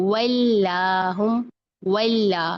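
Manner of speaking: वल्ला as a light, drawn-out "wel-laa"; spread thin lam. Shown as a demonstration. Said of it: "थोड़ा सा फैलाएं लाम को".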